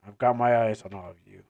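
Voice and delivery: low, quick warning; threatening Ayer. Acted. Ayer warning the clan, low and threatening. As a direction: drop low and menace them.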